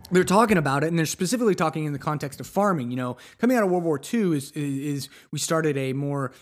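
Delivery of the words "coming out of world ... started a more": normal talking voice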